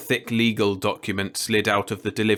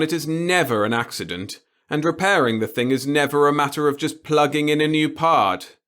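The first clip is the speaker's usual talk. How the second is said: put-on gleeful old boss; 4 semitones higher, 3 dB louder than usual. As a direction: savour every word of it. The boss lectures.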